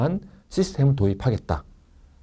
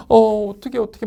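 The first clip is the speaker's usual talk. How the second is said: high-pitched, louder fretting; mock panic; 10 semitones higher, 4 dB louder than usual. Friend who lost a wallet abroad, mock panicking. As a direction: act out a friend in a flap. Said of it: "막 울고 막 난리가 나겠죠".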